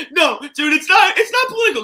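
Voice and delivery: loud, high protest that it's not political; shouted denial. Real, not acted. Defending his jokes to his co-host, loud and high. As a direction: yell it defensively, pitch up high.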